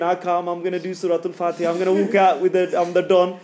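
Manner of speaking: cocky, playful boast; mock swagger. Teacher mocking a student's overconfidence about reciting Fatiha, swaggering. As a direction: strut in like you own the place. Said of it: "you're thinking".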